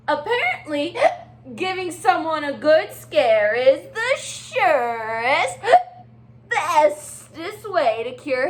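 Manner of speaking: bright, chatty penguin voice with hiccup fuss; excitable Little Penguin. Acted. Teacher reading aloud as Little Penguin to her class. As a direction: play the fretful little penguin.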